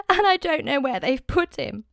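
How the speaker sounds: Mary crying to the angels; grieving Mary. Acted. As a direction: voice Mary, distraught at the tomb. Mary weeping at the empty tomb.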